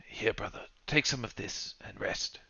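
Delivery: soft, soothing half-whisper; hushed, caring bedside tone; gentle comforting. Acted. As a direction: softly soothe a dying brother. Comforting a dying companion with medicine.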